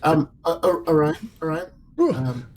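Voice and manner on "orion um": reassuring. Acted. Soothing injured friend.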